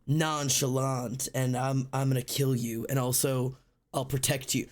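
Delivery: low, unbothered menace; lightly acted nonchalant tough guy. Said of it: "like, nonchalant".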